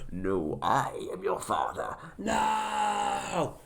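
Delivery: loom over him, then cry out; Darth Vader impression. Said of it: "Darth Vader is like".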